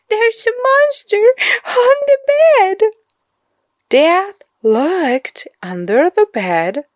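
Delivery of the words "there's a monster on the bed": put-on high, fast frightened boy; upset child. A narrator's reading. Boy tells parents about monster, hurried. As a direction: blurt it out in fear.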